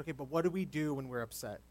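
soothing. Retold or imitated. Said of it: "soothed her down".

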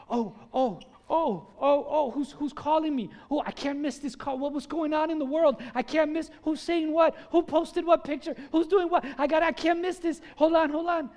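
can't miss a single notification; frantic phone addict. Acted. Pastor acting out a churchgoer grabbing a buzzing phone, hammed-up.

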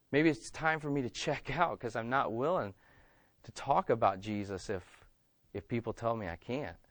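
low, soft, hesitant admission; subdued backing out. Acted. Churchgoer deciding to quit under threat, quiet and reluctant. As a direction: drop the voice and bow out quietly.

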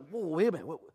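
mock-anxious self-check, laughing; half-joking panic; laughing worry. Preacher mid-prayer, mock-anxious laughing worry. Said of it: "I'm like".

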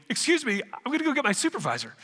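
lightly acted, quick step away for help; flustered angel. Angel excusing himself to fetch a supervisor, flustered. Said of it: "the angel".

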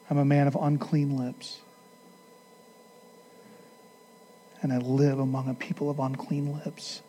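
hushed, earnest prayer to the Father. Acted. Pastor leading the congregation in closing prayer, earnest.

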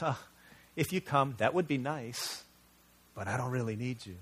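offhand, no urgency, not really needing you; casual half-hearted cry. Shown as a demonstration. Child showing a cry that doesn't need help, offhand. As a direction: toss it off like a child who can take it or leave it.

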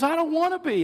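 imitated young woman. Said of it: "She goes".

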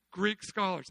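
ordinary talk

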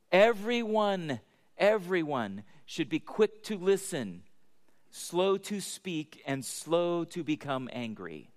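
slow, deliberate preacher reading a verse; emphatic scripture reading. Acted. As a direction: stretch each phrase out with weight. Reads the verse emphatically to congregation.

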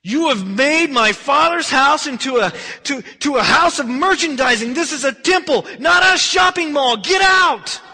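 thundering rebuke, shouted high and hard; furious bellowing. Acted. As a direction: bellow it across acres, outraged. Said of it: "you could hear his voice just bellowing".

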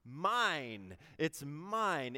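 imitating a possessive child shouting "mine"; child's playground cry. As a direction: play a kid grabbing back a toy. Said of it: "and what do we say?".

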